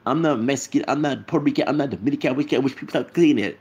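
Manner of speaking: put-on a light Caribbean accent; the comedian insisting he's Caribbean, in a light Caribbean accent. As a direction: imitate the comic's Caribbean accent. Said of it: "came out with his foreign accent".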